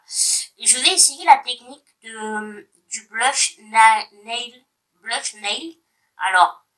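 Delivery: roomy bathroom echo; speaking in a tiled bathroom. Real, not acted. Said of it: "je vous parle dans ma salle de bain".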